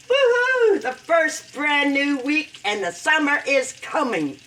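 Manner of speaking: excited. Real, not acted. Happy about the new week.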